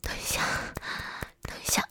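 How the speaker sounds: urgent barely audible whisper; hushed whisper. Acted. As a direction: hush so no one hears. Someone outside, hushing. (压低声音急促耳语)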